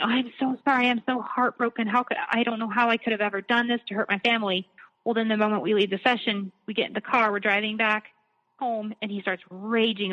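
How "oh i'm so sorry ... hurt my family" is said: mock-contrite, calm apology; imitating a composed, remorseful husband. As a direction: retell his heartbroken sorry act, lightly. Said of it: "he's really calm and like".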